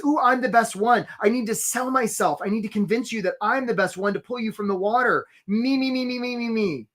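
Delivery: mock-needy self-promoter; needy job seeker. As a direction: imitate someone desperate to be picked. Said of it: "needy is creepy".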